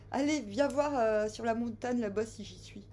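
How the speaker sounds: calling out like Jesus in the sketch; a mock call from the mountaintop; quoting the Jesus sketch. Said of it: "Dixit, le sketch des inconnus, Jésus".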